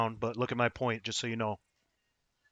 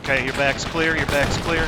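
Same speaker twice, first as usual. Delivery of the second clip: urgent call; 2 semitones higher, 4 dB louder, slower than usual. Real, not acted. Calling out in firefight.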